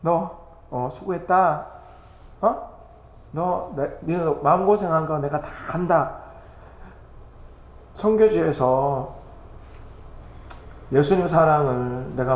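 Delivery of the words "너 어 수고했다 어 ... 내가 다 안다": Jesus comforting. Acted. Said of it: "예수님께서 안아주시고".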